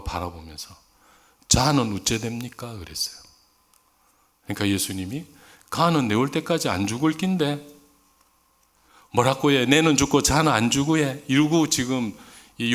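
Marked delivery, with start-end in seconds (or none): 1.5-2.7 Peter asking in casual Gyeongsang dialect; 경상도 사투리로 툭 던지듯. Retold or imitated. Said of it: "제가 이걸 경상도 버전으로 바꿔봤어요". 5.7-11.2 Gyeongsang dialect, a bit louder and grumbling; 경상도 사투리로 투덜대듯. Retold or imitated. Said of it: "제가 이걸 경상도 버전으로 바꿔봤어요".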